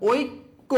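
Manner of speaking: ঐক্য split as oik-ko, the k said twice; doubled consonant. Shown as a demonstration. Teacher showing students the double k, ঐক্য split in two. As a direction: break ঐক্য into oik, then ko. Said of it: "দুইবার উচ্চারণ হয়েছে কিনা".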